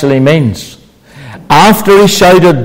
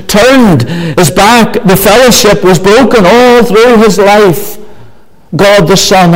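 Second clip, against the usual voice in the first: higher-pitched, insistent pulpit delivery; impassioned preaching; 7 semitones higher than usual. Real, not acted. Preacher telling the congregation of Christ bearing sins, impassioned. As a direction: preach it with rising urgency, weighting the phrases.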